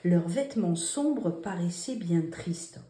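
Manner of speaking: hushed reading for pupils; whispered dictation read. Shown as a demonstration. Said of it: "Allez, venez, on continue".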